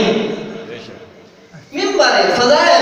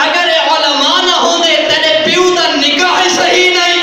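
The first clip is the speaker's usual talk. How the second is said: fiery preaching; 2 semitones higher than usual. Acted. Preacher rebukes those disrespecting the scholars, fiery preaching. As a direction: preach it hard to the crowd.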